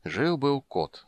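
slow fairy-tale start; storyteller opening. Acted. Geralt to Ciri, slow fairy-tale opening. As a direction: draw out the opening. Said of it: "начал он".

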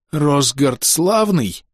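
slow, rasping and feeble; a faint hoarse cry from behind the throne; hoarse weak voice. Acted. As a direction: croak it out barely alive. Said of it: "Хриплый слабый голос".

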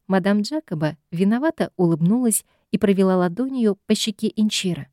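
ordinary delivery

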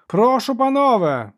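high, loud arena call; announcing referee. Acted. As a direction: proclaim it to the whole crowd. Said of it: "виголосив арбітр".

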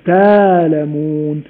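تالمون drawn out slowly, the hamza swapped for a long vowel; hamza softened. Shown as a demonstration. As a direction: stretch تالمون slowly with no glottal stop. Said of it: "فيقول مثلًا يؤمنون". (تالمون ببطء بإبدال الهمزة مدًا)

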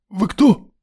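startled, choked high cry; strangled exclamation. A narrator's reading. Startled student to a stranger, choked high cry. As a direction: gasp it out, caught off guard in the dark. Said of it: "сдавленным голосом воскликнул Славик".

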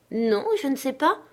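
lightly voiced timid girl; shy little girl. A narrator's reading. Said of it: "répondit-elle la tête baissée".

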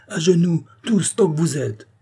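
cri impérieux. A narrator's reading. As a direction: order the whole room sharply. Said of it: "cria Rouget de Lille". (ordre crié, voix aiguë)

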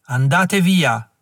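slow, heavy command with the weight on via; ghostly old man's command. Acted. The old chief warns Klug's men away, slow and commanding. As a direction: drag out andate via, landing hard on via. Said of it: "La voce era venuta da dietro".

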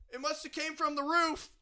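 mock innocent. Feigning innocence to car owner.

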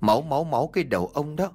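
exasperated wife scolding, fast toward the end; annoyed wife snapping at her scared husband; irritated snapping. Acted. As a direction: scold him, short on patience. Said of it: "bực dọc mà gắt".

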